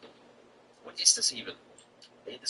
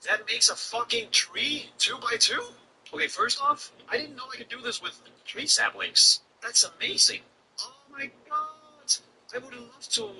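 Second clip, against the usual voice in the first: amazed; 11 semitones higher than usual. Real, not acted. Amazed by tree sapling mechanic.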